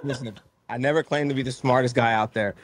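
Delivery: soft words through laughter; laughing while talking. Real, not acted. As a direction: chuckle through the line. Laughing after host's joke.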